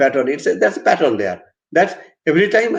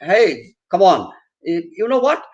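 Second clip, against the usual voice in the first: casual, higher-pitched breezy news-breaking; ongepast luchtig; 5 semitones higher than usual. Shown as a demonstration. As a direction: announce a death far too casually, like gossip. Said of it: "you will not say".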